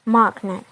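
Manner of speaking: "magnet" with a strong first syllable, falling; stress on MAG. Shown as a demonstration. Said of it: "The stress is on mag".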